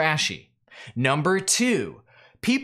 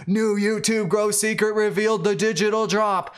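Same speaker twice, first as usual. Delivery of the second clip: mock yelled title; 5 semitones higher than usual. Creator showing why all-caps titles put viewers off, mock yelling. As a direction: read it like a headline yelled at viewers, half-strength. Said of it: "and yell at everybody's face".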